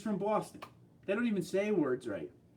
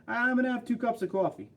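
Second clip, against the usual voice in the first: high-pitched New York demo voice; New York accent; 6 semitones higher than usual. Shown as a demonstration. Showing how this area says it, New York accent. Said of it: "when you're from this area".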